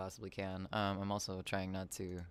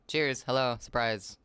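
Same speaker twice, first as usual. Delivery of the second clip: hype greeting; 6 dB louder, slower than usual. Real, not acted.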